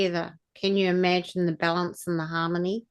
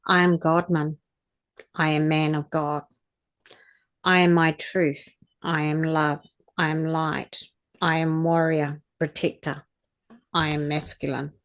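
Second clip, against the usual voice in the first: affirmation prayer; 2 semitones lower than usual. Acted. Recites affirmations hand on heart.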